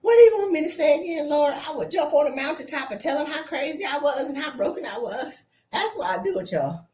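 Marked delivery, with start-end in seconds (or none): 0.0-1.5 louder, faster, delighted punchline; louder, faster triumphant repeat of the punchline; gleeful repeat. Real, not acted. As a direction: relish the line as a punchline. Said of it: "Ooh, that's so funny".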